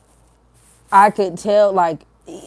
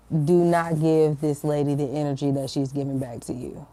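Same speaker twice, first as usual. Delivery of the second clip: firm inner voice; 4 semitones lower than usual. Retold or imitated. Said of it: "I felt so strongly in my spirit".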